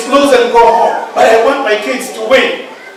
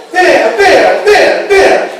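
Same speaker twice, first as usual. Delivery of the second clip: cheering signs; 7 semitones higher, much slower than usual. Retold or imitated. Father's signs voiced, pitch rising.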